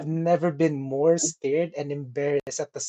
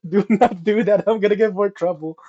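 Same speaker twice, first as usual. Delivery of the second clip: panicked plea; 7 dB louder than usual. Retold or imitated. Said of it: "It's like".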